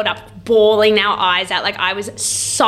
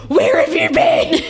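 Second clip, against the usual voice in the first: much higher, laughing, slowed; high laughing mock question; 9 semitones higher, 5 dB louder, slower than usual. Friends greeting her return, high laughing mock voice. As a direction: ask it through laughter in a silly high voice. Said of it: "They're like".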